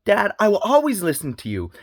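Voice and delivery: a hint of a kid praising Dad; mock child voice. Father imagines his baby son praising him, in a lightly mocking high child voice. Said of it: "get up at a month old and say".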